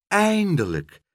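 high, loud cry of relief; heartfelt high exclamation; relieved exclamation. A narrator's reading. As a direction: burst out after the long wait. Pen's relief when Pluk finally returns.

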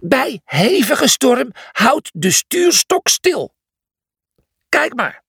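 high, slow squawky recital; high-pitched, emphatic character voice; shouted reading. Acted. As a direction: read it out slowly over the storm. Cornelius reads manual aloud in storm.

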